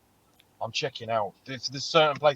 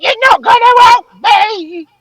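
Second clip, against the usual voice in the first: much higher, louder, slow whining protest; whiny mock wail; 17 dB louder than usual. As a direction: drag it out like a helpless complainer. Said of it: "she was like".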